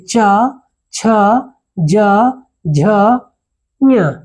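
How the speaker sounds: च छ ज झ ञ said one by one, tongue on the palate; palatal sounds demo. Shown as a demonstration. Teacher shows pupils the palatal letters, spaced and clear. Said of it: "एक बार कोशिश करके देखिए".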